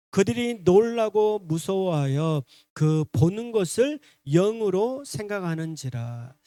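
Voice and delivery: slow, measured verse reading; scripture reading. Real, not acted. Preacher leading congregation in verse thirty-seven, measured reading. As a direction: lead the verse aloud, drawn out. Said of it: "삼십칠 절 말씀 읽어봅시다".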